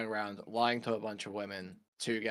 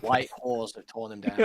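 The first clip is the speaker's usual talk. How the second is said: slow punchline; 8 dB louder than usual. Acted.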